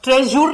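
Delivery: "ट्रेजर" ending in a full "joor"; mispronounced ending. Shown as a demonstration. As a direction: say "ट्रेजर" wrongly, as "tre-joor". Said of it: "नहीं बोलते हैं".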